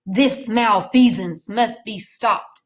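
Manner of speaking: slow, measured hero's declaration; superheroic voice. Shown as a demonstration. Teacher models the line for students to say, superheroic. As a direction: lightly play the superhero, word by word. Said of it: "in your best superheroic voice".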